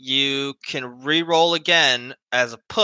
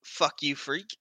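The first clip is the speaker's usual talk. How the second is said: muttered insult; 9 dB quieter than usual. Acted. NPC finally snaps.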